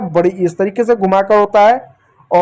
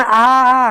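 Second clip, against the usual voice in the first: mock cry of pain; 3 semitones higher than usual. Shown as a demonstration. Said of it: "दर्द में जो आदमी आवाज़ निकालता है ना".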